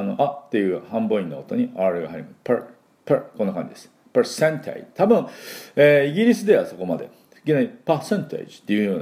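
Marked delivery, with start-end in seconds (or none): 4.1-4.9 percentage with an r-colored per; American pronunciation. Shown as a demonstration. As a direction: percentage said as pr-sen-tage, r in the vowel. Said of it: "ちょっとRが入りますね".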